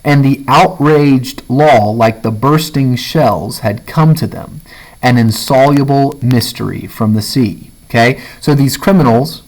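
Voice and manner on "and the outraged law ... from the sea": measured reading from a novel; literary read-aloud. Acted. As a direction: read the passage aloud, deliberate and evenly paced.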